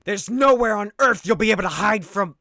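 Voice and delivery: hammed-up vengeful yell; hero's scream. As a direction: lean in on nowhere and threaten the mugger. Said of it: "grabs him and screams".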